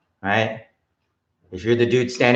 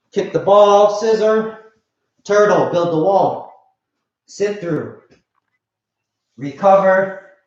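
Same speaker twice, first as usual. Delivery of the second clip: sharp martial arts commands; 5 semitones higher, slower than usual. Real, not acted. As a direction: bark each step of the drill. Calling drill steps aloud.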